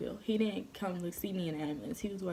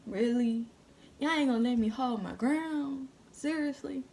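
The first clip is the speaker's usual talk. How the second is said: raised, indignant questioning; mad disbelief; 5 semitones higher, 3 dB louder than usual. Retold or imitated. Girl retells protesting being held back by paramedics, mad disbelief. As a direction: protest it as if cheated. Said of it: "I was so mad".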